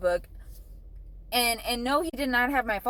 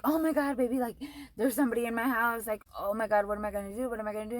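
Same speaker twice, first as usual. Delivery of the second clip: retold panic; 2 semitones higher, faster than usual. Panicked call to boyfriend.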